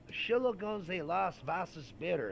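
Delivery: put-on loud, high drunken German with a Kentucky twang; imitated drunk Kentuckian attempting German; botched German, Kentucky accent. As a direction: mangle the German boldly in a thick Kentucky accent. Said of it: "That is not how it's said".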